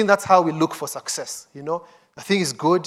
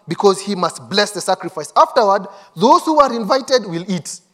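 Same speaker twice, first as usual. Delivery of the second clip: urgent directions; 4 semitones higher, 5 dB louder than usual. Acted. Women giving directions, read urgently.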